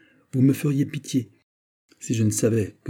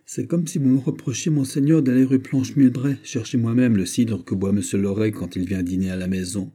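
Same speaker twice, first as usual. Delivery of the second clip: getting heated; 3 semitones higher than usual. Acted. Steward protests to his master with rising heat. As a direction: let the grievance build as he protests. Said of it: "qu'il s'échauffait".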